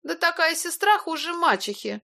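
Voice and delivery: high, scornful jab. A narrator's reading. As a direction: sneer at the sister. Илона язвит. (презрительно, высоким голосом)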